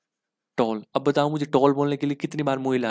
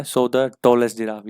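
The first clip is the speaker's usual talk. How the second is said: slow emphatic reading; 6 dB louder, much slower than usual. Shown as a demonstration. Teacher stressing corrected phrase.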